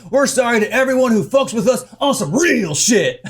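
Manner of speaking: lightly voiced swaggering tough guy; hammed-up REAL, mocking his posturing. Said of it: "Stop presenting this tough guy".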